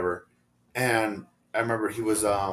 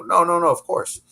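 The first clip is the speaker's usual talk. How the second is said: higher, louder, drawn-out reassurance; retold emphatic reassurance; 8 semitones higher, 5 dB louder than usual. Friend retelling his answer on the phone, emphatic reassurance. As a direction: replay waving away a friend's worry, pitched up.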